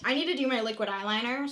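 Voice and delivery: fast breathy whisper. Real, not acted. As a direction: whisper it quickly while concentrating. Whispered while focusing.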